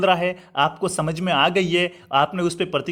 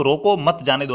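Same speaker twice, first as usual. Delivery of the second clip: रोको first, then मत जाने दो as one group; pause after रोको; 2 semitones lower than usual. Shown as a demonstration. Teacher explaining the thief must be stopped, break after रोको. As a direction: keep मत with जाने दो. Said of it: "यानी कि जाने मत दो".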